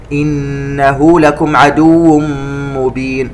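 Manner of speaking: slow, elongated tajweed chanting; Quran recitation. Shown as a demonstration. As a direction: recite it slowly and melodically. Recitation demo. (تلاوة مجودة بطيئة)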